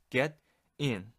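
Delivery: normal talking voice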